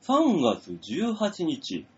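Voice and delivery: detective voice. Acted. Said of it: "探偵風なのかな".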